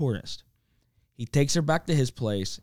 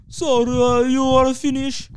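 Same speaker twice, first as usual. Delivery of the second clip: put-on high, louder Italian lover accent; 8 semitones higher, 5 dB louder, slower than usual. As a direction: ham up an Italian seducer. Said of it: "Still think that's French".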